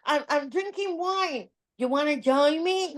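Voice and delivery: imitating the catfisher's sweet-talk; mock flirty scammer. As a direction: play the scammer inviting her to wine, lightly.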